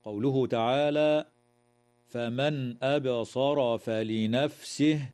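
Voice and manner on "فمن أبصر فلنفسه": "فمن أبصر فلنفسه" slowly, the noon said clearly before the hamza; slow tajweed reading, noon sounded clearly before the glottal stop; clear noon recitation. Shown as a demonstration. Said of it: "إظهار حلقي للنون الساكنة عند الهمزة".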